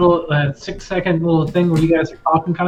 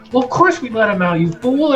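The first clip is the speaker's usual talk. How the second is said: higher, quick scolding; exasperated guard; 5 semitones higher than usual. Acted. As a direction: mildly berate a dim comrade. Guard scolds his dim comrade.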